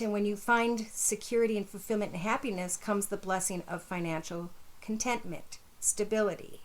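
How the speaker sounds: talking while chewing gum; words around a wad of gum. Real, not acted. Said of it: "pardon my gum".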